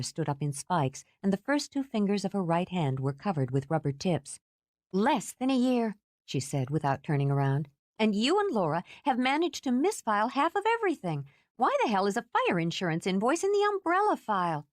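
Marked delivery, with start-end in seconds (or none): 4.9-14.7 Kate's irritated voice. Acted.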